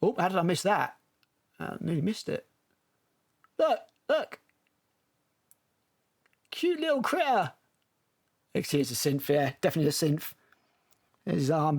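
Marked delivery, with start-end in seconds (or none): 3.6-7.5 put-on high, sing-song baby-talk over a cute critter; mock cutesy gushing. Watching the trailer, coos at the cute critter, mock baby talk. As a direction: coo at it like a pet.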